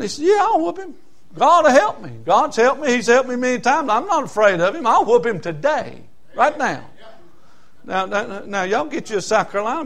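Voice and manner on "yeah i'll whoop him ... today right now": lightly voiced boy, higher at first; eager young David. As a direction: pipe up as a confident lad. Boy David answers the king.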